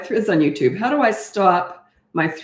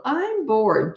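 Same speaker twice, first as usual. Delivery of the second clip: put-on whiny sulky kid, a touch higher; snotty tone; 6 semitones higher than usual. Mother repeats her son's bored whine, snotty. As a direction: sulk it like a bored little boy. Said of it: "just like that".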